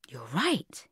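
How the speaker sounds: hushed, near-whispered agreement; soft. A narrator's reading. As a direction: say it low and whispery. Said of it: "he said softly".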